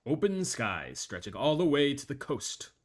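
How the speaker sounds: captain over the plane intercom; calm pilot announcement through a speaker; pilot cockpit headset. Acted.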